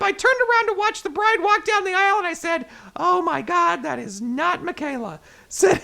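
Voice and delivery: lively, storytelling article read; news story read. Acted. Host reading wedding mix-up article to listeners, news story read.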